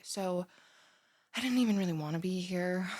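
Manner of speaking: ordinary delivery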